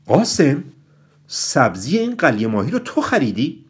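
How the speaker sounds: loud, pointed interrogation. A narrator's reading. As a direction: call out his name, then demand an answer. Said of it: "با صدای بلندی گفت".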